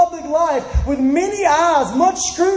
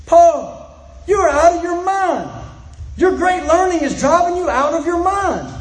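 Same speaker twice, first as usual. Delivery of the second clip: loud voice; 3 semitones higher than usual. Acted. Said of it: "Festus said with a loud voice".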